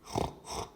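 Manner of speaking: pig snort. A narrator's reading. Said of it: "replied George".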